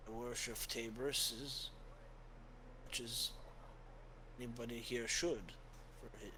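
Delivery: put-on soft reassuring old priest; gentle priest. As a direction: soothe him like a kindly father. GM voices Father.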